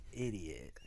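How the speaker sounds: whisper. Acted. Joking insult after laugh.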